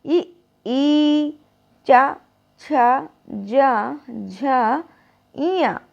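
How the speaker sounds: ई held, then चा and छा crisp from the palate; tongue on the palate for ई, चा, छा; palatal demo. Shown as a demonstration. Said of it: "मेरे साथ बोलिएगा".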